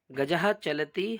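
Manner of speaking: slow, careful Sanskrit recitation. Shown as a demonstration. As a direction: spell out each syllable slowly for pupils. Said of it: "क्या है". (धीमा संस्कृत पाठ)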